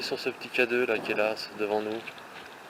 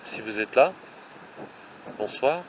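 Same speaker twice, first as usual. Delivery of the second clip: parler fort dans le vent. Real, not acted. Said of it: "Désolé pour le vent".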